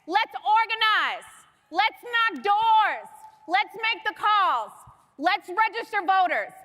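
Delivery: rousing, punchy call to action; rally speech. Real, not acted. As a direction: fire up the crowd, slow and strong.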